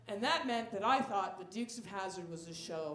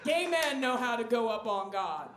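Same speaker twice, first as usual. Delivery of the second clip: mock preacher; 7 dB louder than usual. Preacher-style proclamation.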